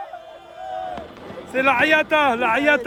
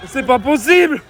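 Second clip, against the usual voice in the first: shrieking jackpot winner. Real, not acted. Fan celebrating quarter-final.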